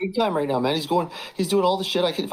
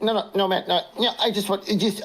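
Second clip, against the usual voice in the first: laughing protest; 5 semitones higher than usual. Retold or imitated. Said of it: "P P G's like".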